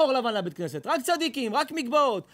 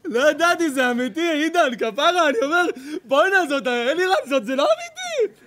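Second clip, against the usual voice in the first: laughing disbelief; 3 semitones higher, 5 dB louder than usual. Real, not acted.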